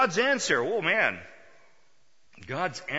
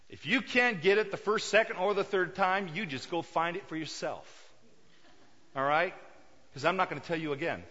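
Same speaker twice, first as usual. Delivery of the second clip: fed-up scolding. Acted. Wife to husband who keeps losing his keys, fed-up scolding. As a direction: lay down the law, mock exasperation.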